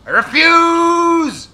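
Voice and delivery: high, slow and loud; loud slow defiance. Shown as a demonstration. Streamer refusing the sledgehammer loudly. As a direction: declare it with defiance.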